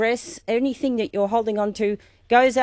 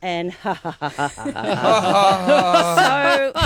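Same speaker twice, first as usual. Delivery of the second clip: smiling laugh; 2 semitones lower, much slower than usual. Shown as a demonstration. Teacher closes the exercise with a last laugh. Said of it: "breathing in, smile".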